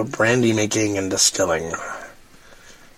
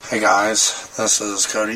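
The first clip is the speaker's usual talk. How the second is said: hoarse, barely-there voice; raspy whisper. Real, not acted. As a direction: rasp it out with a lost voice. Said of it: "I have no voice".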